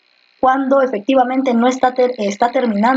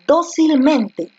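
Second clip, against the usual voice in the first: "Dócilmente" said very slowly, higher, stressing "Dó"; syllable by syllable; 4 semitones higher, much slower than usual. Shown as a demonstration. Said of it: "última, penúltima, antepenúltima".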